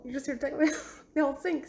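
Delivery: high, laughing, teasing repeat; amused playful echo of his line. Retold or imitated. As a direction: giggle through "the old sink". Echoing his line back, laughing.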